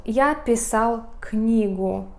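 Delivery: slow, careful teacher read of Я писал книгу; slow model sentence. Shown as a demonstration. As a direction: say Я писал книгу slowly, word by word, for learners. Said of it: "we have here example".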